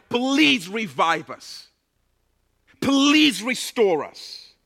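very slow, earnest plea; slow pleading prayer. Pretend. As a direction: draw each word out as a prayer. Prayer pleas.

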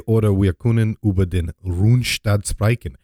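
lightly hammed German delivery; German accent. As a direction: repeat it in a playful German accent. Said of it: "German accent is great".

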